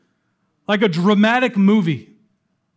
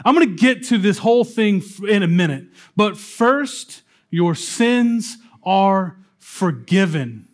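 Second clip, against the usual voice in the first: casual Jesus voice. Retold or imitated. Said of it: "Jesus is looking at this man and says".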